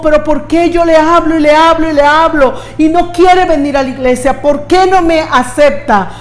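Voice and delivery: mock frustrated complaint. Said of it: "Nosotros decimos".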